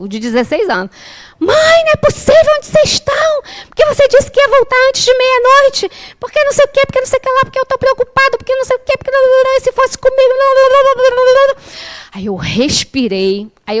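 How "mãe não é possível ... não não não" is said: very high, monotone scolding tirade; imitated telling-off. Mother mimics her sixteen-year-old son scolding her by phone, shrill mock rant. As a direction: rattle off a mock rant that dissolves into babble. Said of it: "ele veio me cobrindo de esporro".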